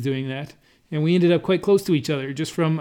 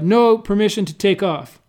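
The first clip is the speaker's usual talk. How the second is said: slow, loud imitated thick Chinese accent; 4 semitones higher, 6 dB louder than usual. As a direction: say it slowly in a heavy Chinese accent. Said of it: "in a thick Chinese accent".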